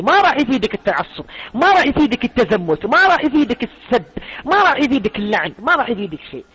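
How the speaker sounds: high, loud hammered repetition; emphatic warning. Real, not acted. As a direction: drive each warning home harder. Repeated warnings to the listener.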